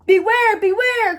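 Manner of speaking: loud, high warning; warning call. A narrator's reading. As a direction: call out the danger urgently. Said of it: "called the bees".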